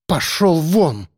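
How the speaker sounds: ледяной, медленный приказ; отрезать холодно, как металлом; холодный металл. A narrator's reading. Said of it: "Голос её зазвенел холодным металлом". (холодным металлическим голосом)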